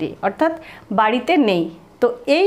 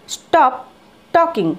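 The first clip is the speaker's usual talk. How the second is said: brisk higher command; 4 semitones higher, much slower than usual. Shown as a demonstration. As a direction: snap out "stop talking". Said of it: "তো just বলো". (উঁচু গলায় "stop talking")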